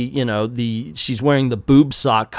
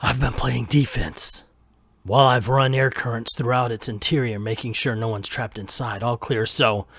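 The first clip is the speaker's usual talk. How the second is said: a hint of low hardboiled narration; brooding noir voiceover, lightly done; noir detective; 3 semitones lower, 5 dB quieter than usual. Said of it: "I'm gonna read it like a noir".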